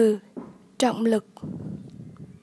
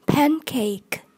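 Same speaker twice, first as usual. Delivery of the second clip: "Pancake" stressed on PAN; stress on first syllable. Shown as a demonstration. Teacher modelling vocabulary for learners, "Pancake" stressed on PAN. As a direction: hit PAN in "Pancake", let cake fall away. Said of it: "nhấn âm một".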